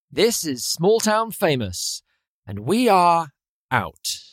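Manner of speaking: slow, drawn-out tagline in an Australian-like accent; Australian-sounding sign-off. Shown as a demonstration.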